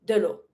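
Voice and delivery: l'eau ending on a plain O; French "de l'eau" as duh lo; O sound. Shown as a demonstration. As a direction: round "l'eau" into lo. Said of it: "O sound".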